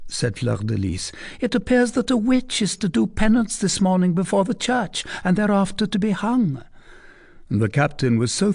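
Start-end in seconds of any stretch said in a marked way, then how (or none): 1.4-6.6 put-on a higher, teasing young lady's voice; coy young lady. A narrator's reading. Young lady teasing the captain, coy and higher. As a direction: play the coy cousin pressing her question. Fleur de Lis voiced high.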